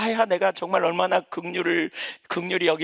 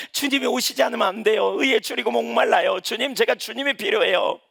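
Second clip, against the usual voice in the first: fervent prayer; 7 semitones higher, 4 dB louder than usual. Acted. Voicing a longing prayer.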